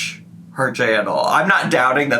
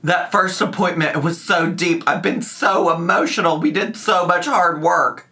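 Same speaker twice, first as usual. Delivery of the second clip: higher-pitched mock gushing; mock-emotional; 4 semitones higher than usual. Host quoting a vlogger's emotional therapy recap, mocking. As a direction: imitate her earnest over-sharing.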